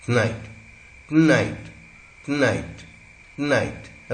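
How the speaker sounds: "tonight" repeated with t fused to n, like "tnight"; syllabic-consonant pronunciation. Shown as a demonstration. Teacher drilling students on connected speech, vowel-dropped pronunciation. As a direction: drop the first vowel of "tonight". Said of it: "ये बन गया टन आइट".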